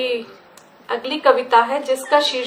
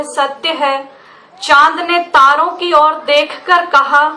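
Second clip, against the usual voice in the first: measured recital, each phrase set apart by pauses; poetry recitation; 3 dB louder than usual. Acted. Poet reciting a poem on truth to an audience, measured recitation. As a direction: recite it as verse, projected a little over chat.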